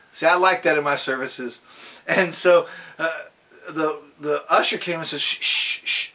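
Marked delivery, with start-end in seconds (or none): 5.2-6.1 whispered, breathy shushing. Retold or imitated. Usher hushing the noisy visitor.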